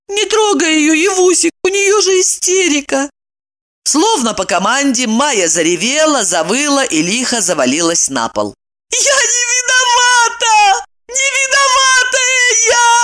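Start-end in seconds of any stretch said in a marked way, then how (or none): 0.1-3.1 higher anxious plea; pleading. A narrator's reading. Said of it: "взмолилась". 8.9-13.0 much higher, slow crying wail. A narrator's reading. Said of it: "вопила она".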